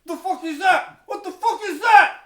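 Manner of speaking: high, loud building shriek; hammed-up terrified scream; mock shocked shriek. Mock shock at Tardis picture.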